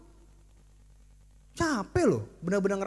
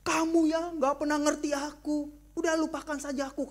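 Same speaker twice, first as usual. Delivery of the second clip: angry wife; 6 semitones higher than usual. Acted. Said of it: "Misalkan ada istri marah".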